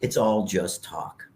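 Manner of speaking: slow, low, resigned grandmother; dismissive grandmother. Retold or imitated. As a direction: imitate a humble old grandma brushing it off. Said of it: "And she goes".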